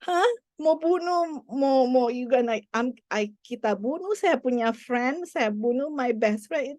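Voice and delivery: put-on a stunned kid who can't believe it; shocked child. Mother voicing her son's shock at killing his friend, bewildered.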